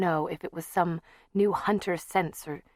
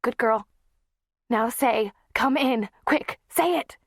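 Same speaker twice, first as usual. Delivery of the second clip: higher, louder eager prompting; urgent coaxing; 6 semitones higher, 5 dB louder than usual. Acted. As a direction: hurry the child along gently.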